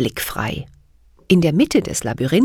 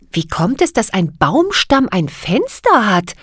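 astonished; 4 semitones higher than usual. Acted. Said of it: "rief sie verblüfft".

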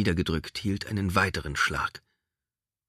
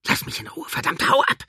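high, loud enraged yell; furious shout; 7 dB louder than usual. Acted. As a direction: scream at the attacker. Woman beats the creature.

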